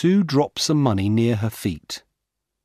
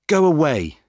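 sharp loud shout, higher; 7 semitones higher, 6 dB louder than usual. A narrator's reading. Sue shouts at the jogger to go away, loud. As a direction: drive him off with a yell. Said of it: "she shouts at the man".

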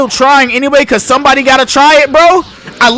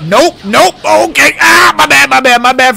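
panicked yelling; 5 semitones higher, 4 dB louder than usual. Real, not acted. Getting hit after trying clash.

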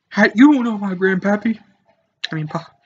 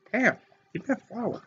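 muttered aside; 4 semitones higher, 8 dB quieter than usual. Acted. Gamer laughing, quietly muttering the demand. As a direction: mutter "flower" under the breath.

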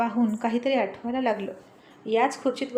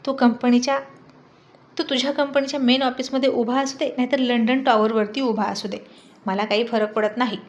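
ordinary delivery

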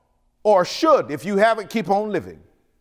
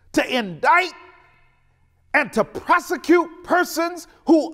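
angry preaching. Real, not acted. Preacher to congregation about the unpunished insurrection, angry shout. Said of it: "and I'm angry about it".

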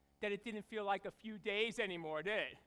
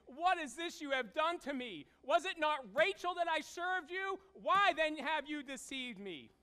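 mild outraged Jacob; 4 semitones higher, 3 dB louder than usual. Acted. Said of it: "he said to Laban".

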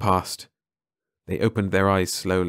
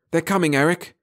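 higher, frightened cry; fearful cry; 9 semitones higher, 3 dB louder than usual. A narrator's reading. Mara warning Eric of patrol ships, frightened. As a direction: fear throbbing through the warning. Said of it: "a throb of chill fear in her voice".

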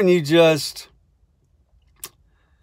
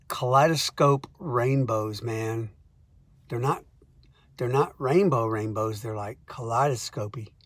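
spaced-out stoner; 3 semitones lower, 5 dB quieter than usual. Retold or imitated. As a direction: drift off like a stoned guy describing colours. Stoned co-writer voiced again.

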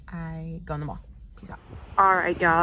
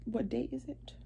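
imitating herself; 6 semitones higher, 7 dB quieter than usual. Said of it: "that's literally what I say every time".

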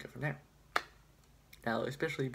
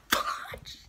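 Jacksepticeye impression; 6 dB louder than usual. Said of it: "How does he do that?".

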